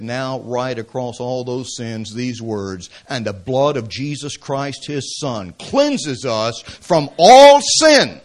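building from low to a loud slow cry on the last words; building proclamation. Retold or imitated. Luther commanding the devil, building to a loud slow cry. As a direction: proclaim the verse, swelling to a shout at the end. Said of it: "He said".

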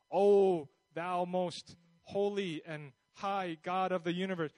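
hammed-up lofty, distant praying; mock-solemn prayer, imitating stiff formality. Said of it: "or is it very formal?".

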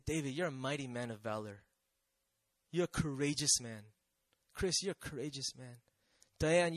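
gentle affirmation. Acted. God comes up to each listener by name, gently affirming. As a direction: say it low and quietly, one person at a time.

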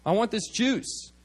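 put-on high, slow pleading kid voice; drawn-out childish demand; little boy demanding. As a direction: imitate a small boy pestering mom. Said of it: "a little boy came up".

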